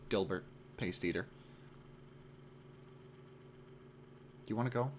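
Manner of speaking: earnest guy casually angling for a date; earnest geeky suitor, casual. Acted. Reads the monologue as example.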